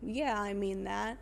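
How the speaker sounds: slow, grudging admission; retold reluctant reply, dragged out a little. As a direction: give in slowly, mildly reluctant. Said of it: "reluctantly is like".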